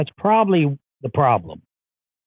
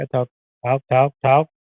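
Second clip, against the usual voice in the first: close to the mic. Shown as a demonstration. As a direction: speak right into the microphone. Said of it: "I have to be on top of it".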